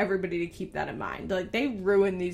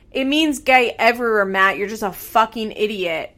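louder, fed-up scolding aimed at him; real annoyed outburst; 7 dB louder than usual. Real, not acted. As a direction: call him out, really exasperated. Vlogger scolds Matt on camera.

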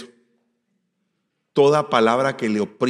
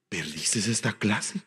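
slow, lightly voiced reproachful mamá; gently guilt-trip your child, drawn out; a hint of a fond, disappointed mother; lovingly oppressive mother; slower than usual. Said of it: "Así como las viejitas oprimen, pero de una manera cariñosa".

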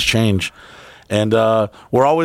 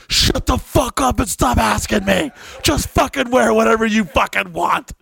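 mock exasperated snap; 8 semitones higher than usual. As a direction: play a fed-up boyfriend done with outfit questions. S1 retells snapping at her.

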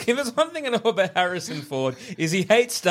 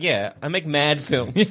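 mock director; 5 semitones lower, slower than usual.

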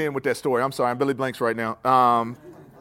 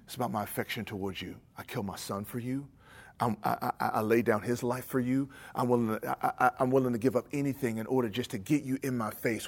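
gentle voice of God; 5 dB quieter than usual. Retold or imitated. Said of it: "And the Lord was saying".

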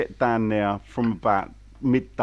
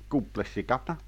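fake Cockney accent; 7 dB quieter, faster than usual. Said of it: "I put on a fake Cockney accent there".

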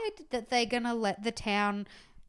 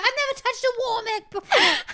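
put-on high laughing kid voice; 13 semitones higher, 8 dB louder than usual. Retelling a kid who wants to feel the warm egg, laughing. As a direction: squeak it out through laughter. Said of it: "And he's like".

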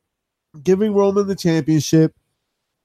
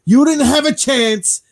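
lightly acted boast, a bit higher; Paul Heyman; 6 semitones higher than usual. Manager to his wrestler at the betrayal, lightly acted boast. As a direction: claim the credit, mildly theatrical. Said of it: "help Roman Reigns and say".

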